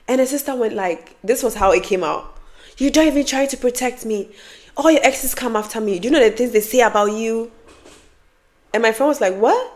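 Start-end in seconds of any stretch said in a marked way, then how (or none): 2.8-7.5 higher-pitched mild accusation; accusing sister. Retold or imitated. Younger sister confronting her older sister in a fight, lightly accusing. Acting out the sister's attack in argument. 9.4-9.7 high rising disbelief; shocked friend. Retold or imitated. Friend hearing what her exes said, high-pitched shock. Friend reacts to sister's revelation.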